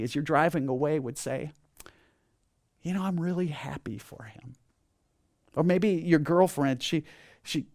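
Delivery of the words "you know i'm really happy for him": softly sincere, at ease; quiet contentment. Acted. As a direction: say it gently, with no envy. Contented person speaking while driving away.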